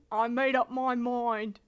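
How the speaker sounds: resolute put-on British voice, slowing down; slow to a firm finish in a British accent. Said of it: "do the British voice".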